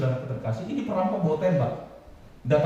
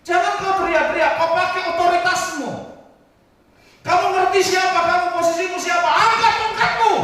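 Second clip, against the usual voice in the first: much higher and louder stern command; God commanding; 13 semitones higher, 8 dB louder than usual. Acted. God commands Musa to use his authority, high and loud. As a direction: bark orders like a commander. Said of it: "Ini Tuhan, saudara".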